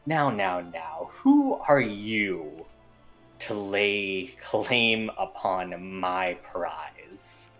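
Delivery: slow, menacing demon drawl; unhinged villain. Acted. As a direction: savour each word like a smug demon. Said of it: "a deep voice just beginning to say".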